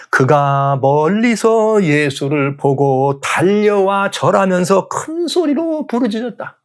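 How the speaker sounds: very slow, drawn-out reading climbing high at the end; dramatic scripture reading. A narrator's reading. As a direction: stretch each phrase, then lift the pitch toward the cry. (성경 구절을 길게 늘여 극적으로 낭독)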